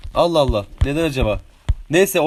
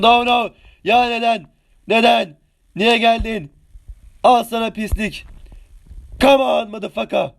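heated shouts; 5 semitones higher than usual. Real, not acted. Fighting an enemy player.

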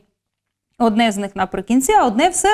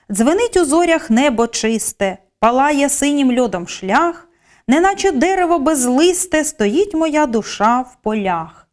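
measured, expressive verse reading, slowing at the end; poem recital; 3 semitones higher than usual. Acted. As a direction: read the lines like a poem on stage. Teacher reads Pavlychko poem example.

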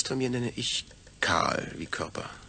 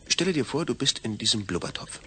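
urgent command; 4 dB louder than usual. Acted. Third attempt, straining to imagine.

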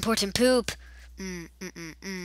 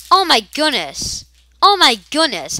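loud, high excited exclaim; 7 semitones higher, 10 dB louder than usual. Real, not acted. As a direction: celebrate the kill. Excited at a kill.

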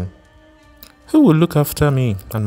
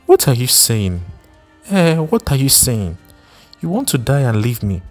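angry wife; 3 semitones higher than usual. Acted. Wife rages at husband.

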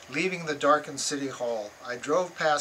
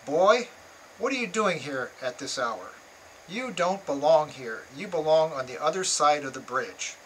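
discourteous; 3 dB louder than usual. Retold or imitated. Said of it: "not at all courteously".

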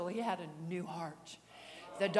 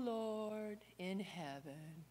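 quiet prayer; 8 dB quieter, much slower than usual. Retold or imitated. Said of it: "My Baptist prayer".

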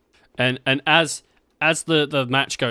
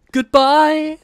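loud, very high "Goodbye!"; high shout; 14 semitones higher, 7 dB louder than usual. Acted. The Rock punching a singer, yelling high and loud. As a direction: yell it with the punch.

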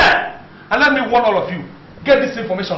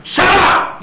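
barked, a bit higher; angry shout; 5 semitones higher than usual. Acted. Boss silences the staff member, angry. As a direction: cut her off sharply.

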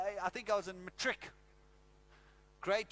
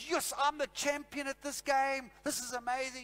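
retold excited cheer; 4 semitones higher than usual. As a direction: crow like a champion. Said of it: "I was so excited".

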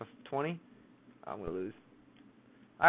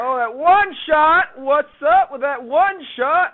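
excited; 9 semitones higher, 11 dB louder, much slower than usual. Real, not acted. Reacting to a shot.

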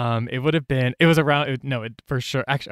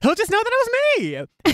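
mock dreamy. Mocking her own naive plan.

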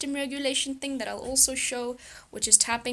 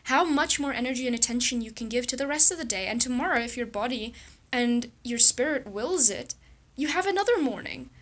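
reassuring; 2 semitones higher than usual. Retold or imitated. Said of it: "I told myself".

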